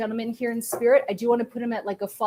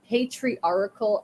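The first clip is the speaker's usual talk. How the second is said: careful retry; much slower than usual. Real, not acted. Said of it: "I can never say that word".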